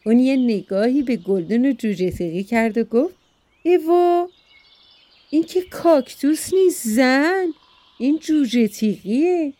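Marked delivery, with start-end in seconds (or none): 3.6-9.5 surprised exclamation. Acted. Husband corrects startled wife.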